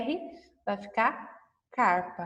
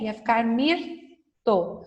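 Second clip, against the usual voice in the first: slow and clear; slower than usual. Shown as a demonstration. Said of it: "Se fosse R".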